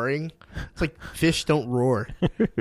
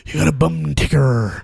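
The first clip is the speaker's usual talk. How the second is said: mock Michael Madsen; 2 semitones higher, 4 dB louder than usual. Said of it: "Michael Madsen".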